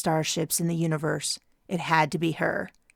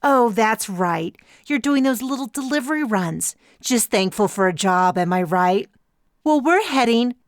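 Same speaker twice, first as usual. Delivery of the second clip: higher, louder condescending captain; gloating rival captain; 5 semitones higher, 5 dB louder than usual. Acted. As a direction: rival captain belittling Liz's delivery runs, gloating.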